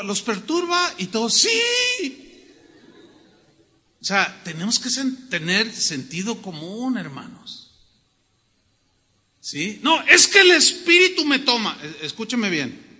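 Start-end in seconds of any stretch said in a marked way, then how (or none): 1.3-2.5 mock shouted yes. 9.8-11.8 mock excuse. Imitating a zealous believer's excuse.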